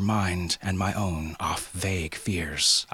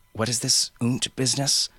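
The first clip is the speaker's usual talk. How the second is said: demanding; 6 semitones higher than usual. Acted. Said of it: "Vaughn demanded".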